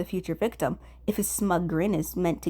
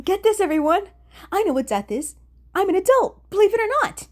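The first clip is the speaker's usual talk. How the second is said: loud, much higher bragging call; boastful announcement; 11 semitones higher, 7 dB louder than usual. Acted. Atsushi imagining announcing to everyone he is an adult, loud and proud. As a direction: shout it proudly to the room.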